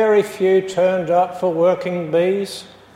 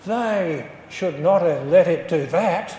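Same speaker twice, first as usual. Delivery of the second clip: mildly disgruntled complaint; a touch of grumbling disapproval; lightly voiced grumble, blaming others. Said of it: "he grumbled".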